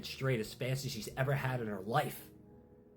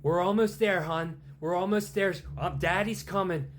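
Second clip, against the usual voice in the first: high, loud anxious comfort; urgent reassuring dad; 7 semitones higher, 7 dB louder than usual. Acted. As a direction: keep her on the line, urgently. Father reassuring on the phone.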